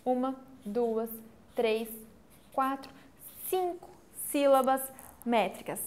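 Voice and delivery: contagem lenta e baixa; contando sílabas pausado. Shown as a demonstration. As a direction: conte devagar, uma pausa por sílaba. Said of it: "Vamos lá?". (contagem pausada em voz mais baixa)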